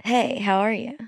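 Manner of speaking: soft pretend phone voice; hushed, playing along on the phone; quiet role-play. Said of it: "do you wanna do, like, a play".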